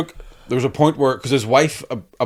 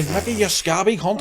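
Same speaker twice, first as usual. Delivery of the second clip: imitating a heckle, high and drawn out; retold street shout; 8 semitones higher, 3 dB quieter than usual. Stranger in a Derry bar to the comic, mock shout. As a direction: call it across a bar, slow and pitched up. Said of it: "just somebody just shouting".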